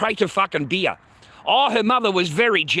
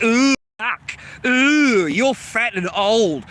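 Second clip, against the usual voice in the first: mocking wife; 4 semitones higher, much slower than usual. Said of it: "You fucking look at him like".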